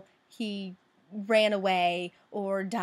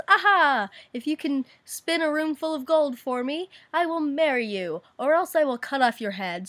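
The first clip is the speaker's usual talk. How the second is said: a louder, higher hammed-up king proclaiming; booming king; 4 semitones higher, 5 dB louder than usual. King threatening the miller's daughter, hammed-up and loud. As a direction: play the pompous king laying down the deal. King's threat in retold fairy tale.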